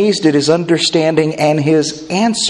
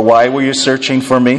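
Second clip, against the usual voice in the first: angry; 4 semitones lower than usual. Shown as a demonstration. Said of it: "some kind of angry emoji".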